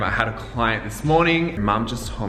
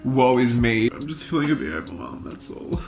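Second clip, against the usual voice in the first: tearful, choked-up confession; real crying, voice thick with tears; snotty crying; 4 dB quieter than usual. Real, not acted. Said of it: "Sorry, I have such an ugly crying face".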